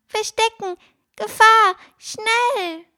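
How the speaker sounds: tiny high squeaky cry of alarm; squeaky shout. A narrator's reading. Bird warns Fine of danger, a squeaky high shout. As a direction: yell in a panicky squeak. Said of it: "schrie mit seiner piepsigen Stimme".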